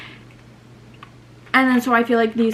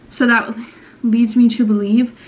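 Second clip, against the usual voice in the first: breathless, winded talk; out of breath; 4 dB louder than usual. Real, not acted. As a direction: talk while catching your breath. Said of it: "can you tell I'm out of breath?".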